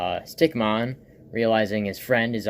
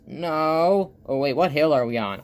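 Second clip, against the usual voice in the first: Flowey; 4 semitones higher, 4 dB louder than usual. Acted. Flowey balks atop the hill, higher reluctant cartoon voice. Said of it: "And Flobby goes".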